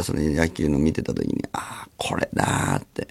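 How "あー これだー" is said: slow breathy whisper of discovery; whispered realization. Retold or imitated. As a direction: let it dawn on you in a whisper. Realization at the ballfield. (ささやくように、ゆっくり)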